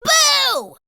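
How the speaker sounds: high, loud boo; cried boo. Acted. Spike scaring Splat, a high loud boo. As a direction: jump out and shout boo. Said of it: "cried Spike".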